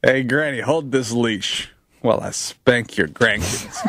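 slow creepy voice, laughing through it; a lightly voiced creep asking a favour; teasing his friend with a creepy voice; creepy put-on voice. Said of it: "you doing that voice".

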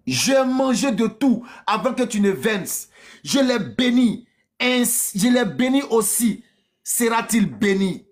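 lightly acted father in shock; a touch of anguished disbelief; mildly distraught Isaac. Voices Isaac seized by emotion.

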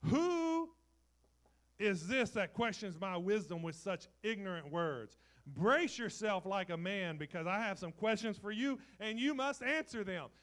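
booming God voice, high and loud; big commanding divine voice. Retold or imitated. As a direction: thunder it down like the Lord rebuking Job. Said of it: "He said".

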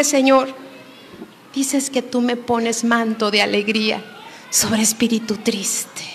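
soft, hushed prayer. Retold or imitated. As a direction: pray it close and quiet. Quoted prayer, soft, whispered.

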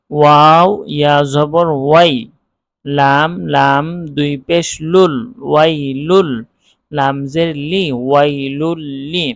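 measured Qaida spelling drill, each syllable built up. Shown as a demonstration. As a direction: spell WAI-LUL-LI letter by letter with vowel names. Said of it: "আমরা এইভাবে বানান করব না".

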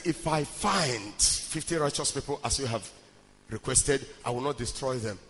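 very low, soft retold reply; quiet divine answer. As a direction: answer gravely in a hushed low voice. Retells God's answer to Abraham.

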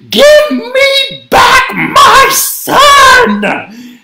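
slow, high, furious roar; raging shout. A narrator's reading. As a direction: rage at them word by word. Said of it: "she raged at the Torkelsons".

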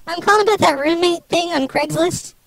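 voice-changed woman's voice; fake female voice. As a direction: play a woman over the phone. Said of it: "I can stop with this whole charade thing".

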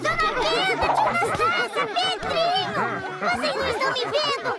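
calling out. Acted. Character calls out unnoticed.

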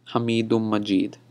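"Hamidum Majid" with long i vowels leaned on; stressed pronunciation. Shown as a demonstration. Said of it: "I kinda tend to stress this".

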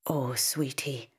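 slow, hushed murmur; murmuring softly. A narrator's reading. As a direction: comfort the scared child in a whisper. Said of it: "murmurs Sarita".

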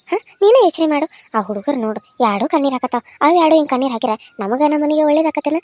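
hard-nosed mother-in-law laying down the law; scolding elder. Acted. Elder scolds daughter-in-law Saroja. (ಸರೋಜಾಳನ್ನು ಗದರಿಸುವ ಹಿರಿಯೆ, ಕಠಿಣ ಧ್ವನಿ)

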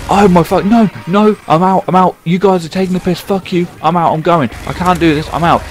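frantic panic. Retold or imitated. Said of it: "and he went".

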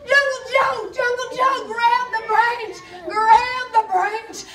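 urgent call across the river, slowing on grab the branch. Retold or imitated. Storyteller calling to Jungle Joe in the river, loud and urgent.

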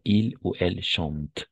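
"chante" stops on the t; silent ending. Shown as a demonstration. Teacher explains the present tense endings, silent ending. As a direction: say "chante" as "chant", measured and slow. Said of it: "la E N T al final no se pronuncia".

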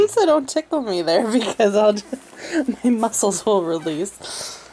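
ticklish giggles breaking into the words; laughing plea. Real, not acted. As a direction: plead while giggling. Being tickled, pleading through laughter.

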